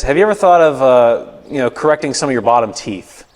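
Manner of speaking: lightly imitated offhand dentist; mock nonchalant. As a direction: float it as a casual suggestion, imitating a dentist.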